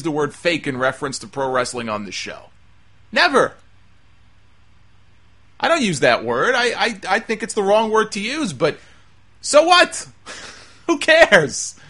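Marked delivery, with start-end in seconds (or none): 3.1-3.5 loud, high-pitched NEVER; indignant one-word answer; emphatic denial. Real, not acted. Emphatic answer to own question. 9.4-11.8 very high, loud dismissal; indignant, raised-voice rhetorical questions; exasperated outburst. Real, not acted.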